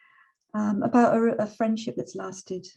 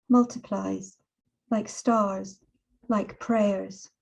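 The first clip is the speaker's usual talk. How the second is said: poetry reading; slower than usual. Acted. Reads her poem aloud.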